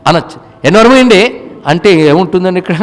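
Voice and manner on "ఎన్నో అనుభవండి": mock blunt retort. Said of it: "కొండబద్దలు కొట్టేట్టు మాట్లాడతానండి".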